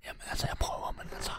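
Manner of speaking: whispering. Acted. Nervous burglar whispering back to his partner, hushed. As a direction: whisper it so the mayor won't wake. Sneaking past sleeping mayor.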